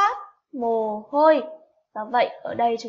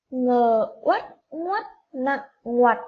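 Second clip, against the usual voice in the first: Ngờ uất ngoắt nặng ngoặt spelled out slowly, each sound apart; slow spelling; slower than usual. Shown as a demonstration. Teacher models spelling ngoặt, slow and deliberate. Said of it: "sẽ được đánh vần là".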